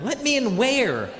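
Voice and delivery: high, drawn-out mock disbelief; baffled retort. Comic questioning being let in at a parking lot, baffled.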